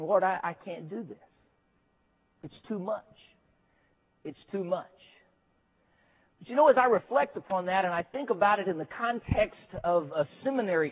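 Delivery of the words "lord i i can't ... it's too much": softer, hushed, near tears; a weary student's prayer, barely audible; broken prayer. Retold or imitated. Alone in his room, praying to the Lord in soft despair.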